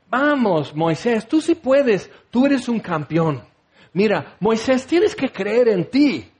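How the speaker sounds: hammed-up motivational cheering; rally someone like a cheesy coach; rising, emphatic mock encouragement; mock pep talk. Mock pep talk God never gave.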